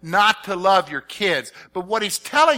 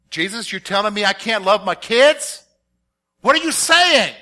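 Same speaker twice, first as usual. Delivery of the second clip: mock alarm; 2 semitones higher, 5 dB louder than usual. Father protesting to Jesus about loving his kids, alarmed. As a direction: cry out in disbelief.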